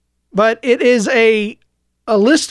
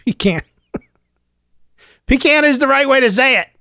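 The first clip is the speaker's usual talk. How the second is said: laughing through the correction, faster; laughing at a slip; 5 semitones higher, faster than usual. Real, not acted. Laughing after stumbling on pecan. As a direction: chuckle at his own flub. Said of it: "I just messed up".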